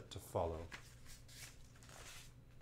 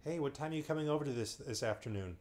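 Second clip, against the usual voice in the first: mock modern chat; 3 semitones higher, faster than usual. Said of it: "what an absolute non-answer".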